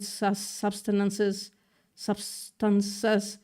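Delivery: stumbling slowly over "substances"; struggling to read. Real, not acted. Streamer reading a tennis article aloud, struggling to read. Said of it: "makes me really struggle to read it".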